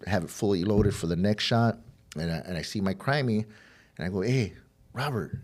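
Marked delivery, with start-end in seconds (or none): 4.2-5.4 slow, whispery retold call; hushed call. Calling his crimey on the street, hushed. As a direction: imitate calling out, mostly breath.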